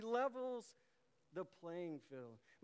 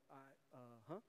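chill uh-huh; 5 semitones lower, 11 dB quieter, slower than usual. Shown as a demonstration. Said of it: "real chill-like".

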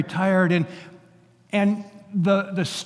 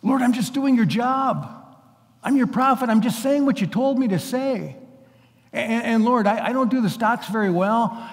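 higher, exasperated pleading prayer; a worn-out prophet begging God to let him off; weary plea to God; 3 semitones higher than usual. Retold or imitated. Preacher voicing his own weary complaint to God, higher and pleading. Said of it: "I would have had to say".

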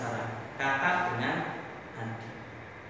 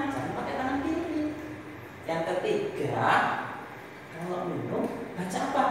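put-on advising older sibling; 3 semitones higher, slower than usual.

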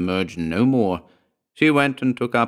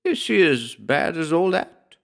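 sudden sympathy; 8 semitones higher than usual. A narrator's reading. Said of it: "asked with sudden sympathy".

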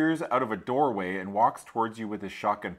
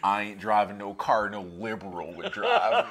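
mock redneck. Voicing a redneck driver.

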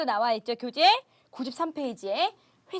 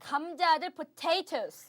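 slow model word; 3 semitones higher, 6 dB quieter, much slower than usual. Shown as a demonstration. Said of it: "teacher modelling words".

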